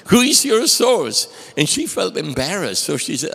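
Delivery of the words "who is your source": louder, higher demand for the source. Retold or imitated. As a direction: press hard for a name. CFO pressing her.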